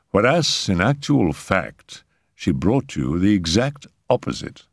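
understated, dry contradiction. Acted. Raoul shrugs off Simone's foreboding, dry. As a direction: counter with cool matter-of-factness. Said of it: "he said dryly".

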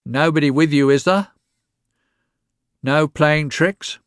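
put-on old woman checking he came alone; suspicious old crone. A narrator's reading. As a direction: probe him like a sly old woman.

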